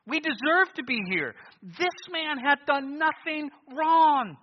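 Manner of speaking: loud, high, slow stern rebuke; rebuking thief. Acted. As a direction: silence the other man. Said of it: "he said".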